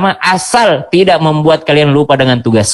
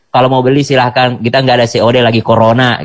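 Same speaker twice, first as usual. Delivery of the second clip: lower, mildly curt admin voice; rude seller; 5 semitones lower than usual. Retold or imitated. Online admin refusing cash on delivery, mildly rude. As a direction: lightly play an unhelpful shop admin. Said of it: "Pokoknya kasar gitu ngomongnya".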